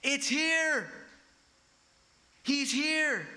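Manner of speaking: high loud herald's announcement; proclaiming cry. Retold or imitated. John announcing the coming king in a high loud cry. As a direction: announce the king's arrival at full voice. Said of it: "here comes this voice from the king".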